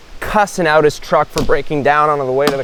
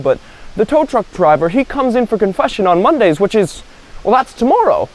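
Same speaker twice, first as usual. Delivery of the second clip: put-on higher-pitched old monk, lightly amused; amused old father; 5 semitones higher than usual. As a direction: explain obligingly as a genial old father. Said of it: "the father kinda chuckles and he's like".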